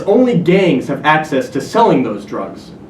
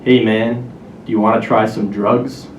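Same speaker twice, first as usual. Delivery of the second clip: low-pitched sketchy dealer voice; sketchy guy; 5 semitones lower than usual. Acted. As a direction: lower your voice like a shady stranger offering something. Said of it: "in his sketchy guy voice".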